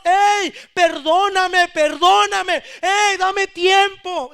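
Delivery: slow, loud desperate pleading; loud clamor. Acted. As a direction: beg the king at full voice, drawn out. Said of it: "con clamor".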